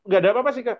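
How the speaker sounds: a lightly voiced client waving it away; brushing-off client. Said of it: "kalau dia mengatakan".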